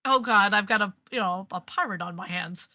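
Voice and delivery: mildly exasperated, wry aside. Acted. Lady Mary stuck with a pirate on her hands, wry. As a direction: sigh it out wryly, starting strong and dropping. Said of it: "you can kinda hear the wry".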